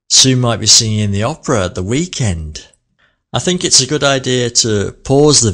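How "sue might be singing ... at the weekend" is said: "weekend" slow and melodic; stress on weekend. Shown as a demonstration. Teacher highlighting "weekend" by slowing down. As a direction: draw out "weekend" with a lilting tune. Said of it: "slow down for it and give it more melody".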